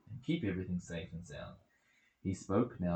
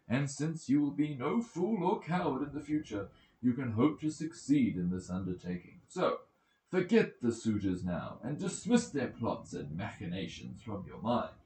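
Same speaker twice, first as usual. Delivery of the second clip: put-on raised, stirring voice of an old friend; rally the young man to his journey; a lightly voiced Mentor, urging and assured; encouraging goddess as mentor; 3 semitones higher, 4 dB louder than usual. Athena speaks as Mentor.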